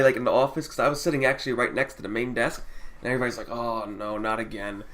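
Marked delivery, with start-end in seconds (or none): 3.5-4.8 low, soft "oh no" groan; mock dismay. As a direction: quote the staff's weary dread under your breath. Staff's weary reaction, retold.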